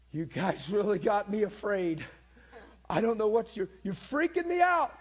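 high, loud, shaken voice; frightened and emotional. Retold or imitated. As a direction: sound rattled and close to panic. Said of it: "And he's really emotional".

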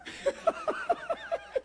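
a sudden very high giggle; real delighted laugh; high squeal of laughter. Real, not acted. Laughing at the girl.

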